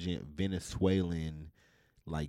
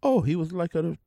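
high, loud put-on English accent; hammed-up Englishman's accent; attempted English accent; 9 semitones higher, 6 dB louder than usual. Guessing at Tom Hardy's Bane accent, high mock English accent. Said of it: "that sounds Irish".

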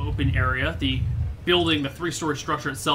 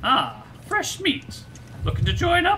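much higher, squeaky woman's voice; girl's voice. Acted. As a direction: redo the line as a tough woman. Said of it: "I will figure out how to do a girl's voice".

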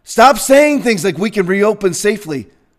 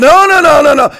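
high, loud, mocking "no, no, no"; mock dismissive woman; 5 semitones higher, 5 dB louder than usual. Mocking the woman who brushes off his question. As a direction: wave him off like the woman did.

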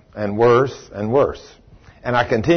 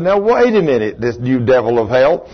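stern rebuke. Retold or imitated. Believer confronting the devil over a sudden stuffed nose, sternly rebuking. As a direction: re-enact standing up to the devil. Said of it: "I rebuke you and command you".

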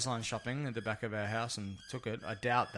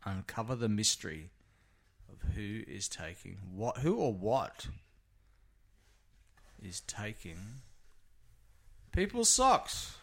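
mock documentary narrator. To her friend, framing the sock thefts as a TV mystery, hammed-up. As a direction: narrate it like a cheesy mystery show.

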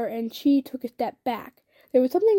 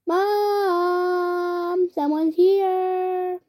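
calling out; 7 semitones higher, 3 dB louder, much slower than usual. Acted. Child calls mother at door.

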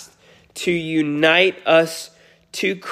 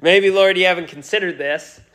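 hesitant protest; 3 semitones higher, faster than usual. Retold or imitated. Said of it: "a hesitation to voice to the Lord".

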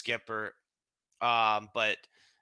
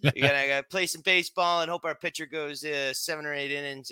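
imitating Gibby; 2 semitones higher, faster than usual. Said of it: "kinda talks like this".

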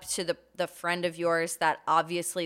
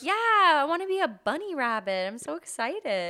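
mock excited kid; 9 semitones higher than usual. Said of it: "And I was like".

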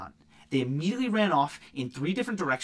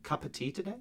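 mocking English accent; 7 dB quieter than usual. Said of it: "Going for the accent, man?".

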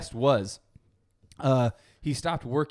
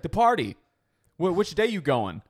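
mom voice; 5 semitones higher, 5 dB louder than usual. Retold or imitated.

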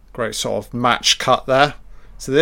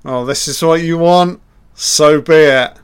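lightly voiced God, louder and higher; mock God; 4 semitones higher, 8 dB louder than usual. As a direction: play God granting a wish, grandly. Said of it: "So God is like".

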